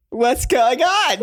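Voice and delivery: high, slow giggly question; giggly drunk. Retold or imitated. Friend acting her drunk self, clueless, all giggles. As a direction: draw it out high through giggles. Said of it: "like, all giggles".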